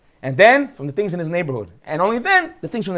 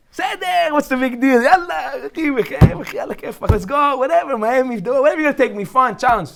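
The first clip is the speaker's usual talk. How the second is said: put-on carefree young guy; 5 semitones higher, faster than usual. Young man eager to go anywhere.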